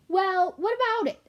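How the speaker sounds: impatient whispered demand; hushed and impatient. A narrator's reading. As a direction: push for an answer, hushed. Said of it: "asked Sorrel impatiently".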